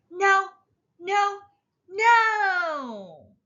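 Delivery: high, loud cross shouts; cross refusal. A narrator's reading. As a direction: stamp out each no like a cross toddler. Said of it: "But Sonny is cross".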